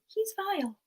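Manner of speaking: high, soft "He's vile.". Shown as a demonstration. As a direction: lift it up, softly disgusted. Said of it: "they don't really say it like that".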